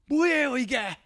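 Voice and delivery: high pleading protest; high-pitched mock protest to Jesus; Peter protesting. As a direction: beg him not to go, voice rising. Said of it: "이렇게".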